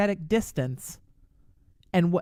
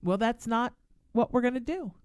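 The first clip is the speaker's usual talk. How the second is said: polite and calm; 4 semitones higher than usual. Shown as a demonstration. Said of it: "politely say".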